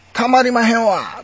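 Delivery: high, loud Kansai exclamation with long wa; Kansai dialect. Shown as a demonstration. Demonstrating the wa added at the end, emphatic Kansai accent. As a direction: exclaim it in broad Kansai intonation. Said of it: "最後、わーつけるでしょ".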